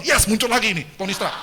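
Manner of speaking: sorakan girang penggemar; senang. Acted. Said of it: "kita senang". (gembira, seru)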